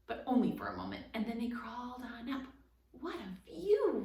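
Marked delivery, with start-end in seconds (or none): 2.9-4.0 higher, louder, slow and amazed; exclaiming. A narrator's reading. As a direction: gasp it out from the kitten's back. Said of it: "Rip exclaimed".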